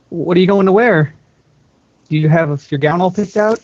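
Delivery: nervous cheer through the door; hopeful younger sister. Acted. Sister talking to a locked door, hopeful and nervous. Anna voiced at Elsa's door.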